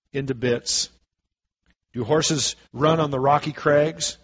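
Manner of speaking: measured, declaiming Bible reading; scripture reading. Acted. Preacher reads Amos to the church, declaiming. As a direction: read the prophecy aloud to the congregation.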